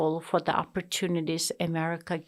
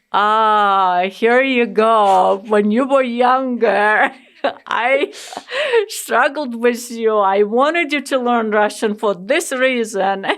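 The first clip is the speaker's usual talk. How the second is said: mother teasing her sons; teasing told-you-so; 3 semitones higher, 7 dB louder than usual. Retold or imitated. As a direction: rub it in with a laugh. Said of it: "I'm like".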